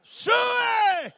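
high, loud hog call, drawn out; a big farmboy hog call across the fairway; hollered hog call. Retold or imitated. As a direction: holler Suey across the golf course. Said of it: "and I hollered".

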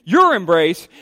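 "your" punched out first, then falling; stress on YOUR. Acted. Pointing out the blame, "your" stressed. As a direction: hit "your" to place the blame. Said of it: "notice that, the you".

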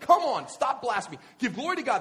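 loud, high angry yell. Acted. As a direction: shout him down. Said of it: "That's just yelling".

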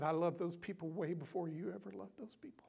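a tender, whispered divine voice; whispered voice of God. Retold or imitated. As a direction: breathe God's words in a whisper. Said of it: "he said".

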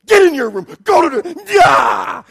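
loud angry dad shout, ending in a yell; wrathful dad. Retold or imitated. Dad sending his kids to their room, angry yelling. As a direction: bellow orders at the kids. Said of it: "the wrath of dad was coming".

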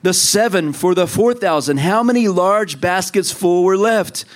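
voice of Jesus. Acted. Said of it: "And he says".

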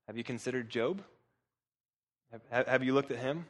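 low, soft voice for God; understated question. Acted. God to Satan about Job, low understated question.

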